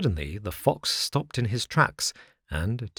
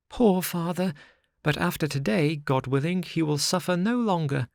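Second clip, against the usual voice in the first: put-on higher, earnest little wooden boy; eager puppet boy; 8 semitones higher than usual. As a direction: tell it like a proud, worried child. Pinocchio voiced by narrator.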